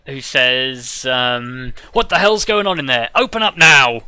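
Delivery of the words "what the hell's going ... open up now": booming voice. Acted. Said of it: "a booming voice".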